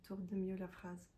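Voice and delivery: a hint of a picky inner critic correcting her; nagging inner perfectionist. Her inner perfectionist cracking the door open to nag her, lightly voiced. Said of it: "me dire".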